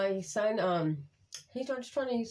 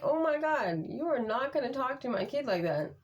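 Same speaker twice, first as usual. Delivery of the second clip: indignant, higher-pitched retort; pissed off; 5 semitones higher than usual. Retold or imitated. Mom warning the bus driver off her kid, pissed off. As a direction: lay down the law, starting high in disbelief. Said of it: "I was pissed".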